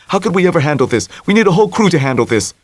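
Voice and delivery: Tommy panicking over handling the yacht; babbling Tommy. A narrator's reading. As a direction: rush out the words nervously. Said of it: "Tommy babbled".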